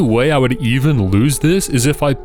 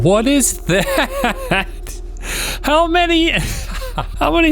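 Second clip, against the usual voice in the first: surprised. Real, not acted. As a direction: squeal it out in disbelief. New odd card appears.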